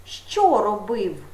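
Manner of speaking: Що stressed, slow falling Що робив; slow question. Shown as a demonstration. Teacher modelling the tense question for pupils, slow. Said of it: "Питання".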